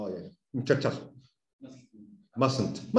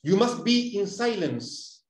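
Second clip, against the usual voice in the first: slow model sentence; 3 semitones higher, much slower than usual. Shown as a demonstration. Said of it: "Eso es como lo más común".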